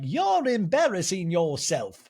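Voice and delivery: lightly hammed-up reproach; Meredith impression. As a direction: draw it out in affronted diva style. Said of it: "an example of Meredith like".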